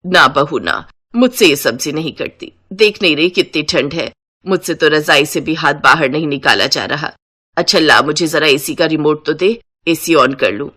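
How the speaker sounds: low-pitched elder making excuses; refusing mother-in-law. Acted. (काम टालती सास की नीची आवाज़)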